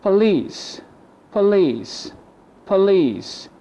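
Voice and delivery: "Police" as puh-LEECE, falling; schwa for O. Shown as a demonstration. Teacher models O as U H, "Police" with schwa. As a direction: reduce the O in "Police" to uh. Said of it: "The O equal U H".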